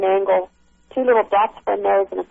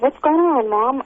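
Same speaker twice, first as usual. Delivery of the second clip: higher-pitched quote of a daughter asking; retold concerned question; 5 semitones higher, slower than usual. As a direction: lightly imitate a puzzled daughter. Retelling daughter's alarmed question.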